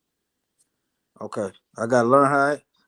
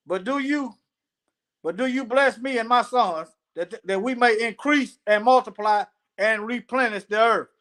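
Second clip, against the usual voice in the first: raised, deliberate reading voice; scripture reading; 2 semitones higher than usual. Acted. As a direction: read it out phrase by phrase. Reads scripture aloud.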